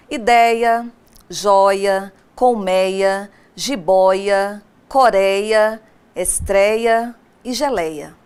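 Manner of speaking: loud, deliberate list of Ideia, joia, colmeia, jiboia, coreia; reading examples aloud. Shown as a demonstration. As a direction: call out each example word like a teacher at the board. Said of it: "Vejam nesse quadro de exemplos". (lista de exemplos lida em voz alta e pausada)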